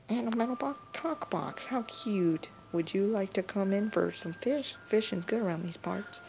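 lightly voiced folksy granny, curious; a touch of a homely old woman inviting you in; old grandma voice. Granny welcoming the robot, lightly voiced old woman.

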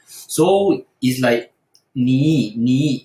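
你 in a careful dipping tone; Mandarin third tone. Shown as a demonstration. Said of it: "It's not".

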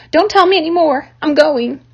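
can't wait another second; excited rat. A narrator's reading. Templeton giving in to the sheep's tempting talk, high eager. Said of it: "cried Templeton".

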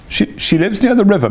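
a put-upon laundress begging sympathy; Toad as washerwoman. A narrator's reading. Toad in disguise pleads with the barge woman.

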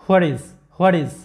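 where is drawn out slowly, linked into one smooth word; slow linking demo. Shown as a demonstration. Teacher slowly modelling linked words for students. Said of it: "তাহলে কি হচ্ছে যে".

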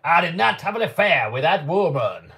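a half-hearted American politician's denial; weak American accent. Retold or imitated. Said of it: "Give your best American accent".

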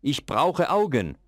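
shouting out for eyes. A narrator's reading. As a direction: demand it like a greedy maker. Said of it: "rief er plötzlich".

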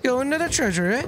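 posh high British colonel voice; pompous sputtering colonel. Pretend. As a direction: play a pompous old British officer. Posh voice joking in game.

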